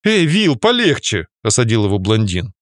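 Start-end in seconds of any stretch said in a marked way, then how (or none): 0.0-1.3 higher, cautioning call. Acted. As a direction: rein in a hot-headed friend. Blond reins in angry friend.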